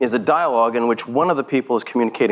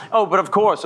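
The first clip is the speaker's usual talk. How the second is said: theatrical aside; 7 semitones higher than usual. Acted. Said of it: "that's an aside to the audience".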